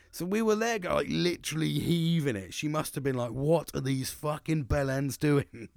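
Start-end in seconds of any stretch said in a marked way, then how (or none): 3.3-5.7 slow, drawn-out incredulous question; imitated disbelief. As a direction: mimic a baffled onlooker, stretching the words. Imagining what manager thought.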